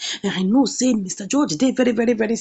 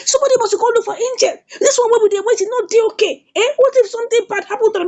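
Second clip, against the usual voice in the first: high-pitched, hurried worried plea; retold worry, high and quick; anxious urging; 9 semitones higher, faster than usual. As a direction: press them urgently, voice pitched up. Oma urges a search for Angel.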